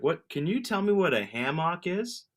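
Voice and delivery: high, puzzled questions, laughing; pretending to ask grocery staff about hammock; mock confused shopper. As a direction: play a baffled shopper. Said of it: "You're just like".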